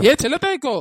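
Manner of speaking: loud, falling shout of her name; shouting her name with a falling end; angry call. Acted. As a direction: call her sharply, fed up. Calling out again, angrier.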